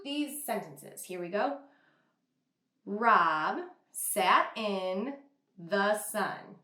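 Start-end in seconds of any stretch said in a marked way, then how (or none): 2.8-6.6 "Rob sat in the sun" read slowly as one smooth phrase; slow, smooth scooped reading. Shown as a demonstration. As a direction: sweep the words together in one scoop. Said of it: "I'm gonna do something called scoop".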